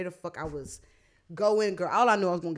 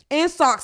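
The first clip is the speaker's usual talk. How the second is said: "In socks" repeated much higher and louder, hitting "socks"; emphatic repeat; 8 semitones higher, 8 dB louder than usual. Real, not acted. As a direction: punch "In socks" the second time, disbelieving.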